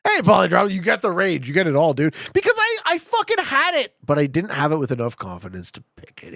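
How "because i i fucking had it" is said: exasperated. Real, not acted. Regret over the right guess.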